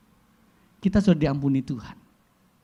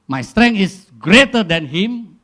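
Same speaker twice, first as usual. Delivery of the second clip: slow, loud, puffed-up boast in English; arrogant boast; 5 semitones higher, 11 dB louder, slower than usual. Retold or imitated. Preacher voicing an arrogant driver, slow loud boast. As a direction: lean on every word like a bully.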